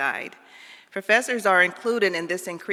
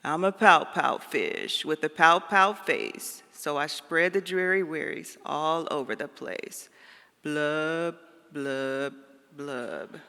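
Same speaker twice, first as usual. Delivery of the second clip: slow, droopy pout-fish voice; glum fish refrain; 2 semitones lower, slower than usual. Acted. Reading the fish's sad refrain to listeners, slow and droopy. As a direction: drag out the gloomy refrain like a sulky fish.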